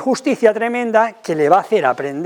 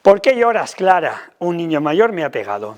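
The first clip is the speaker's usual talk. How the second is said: dismissive parent dialogue. Shown as a demonstration. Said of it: "¿Cómo sería quitarle importancia?".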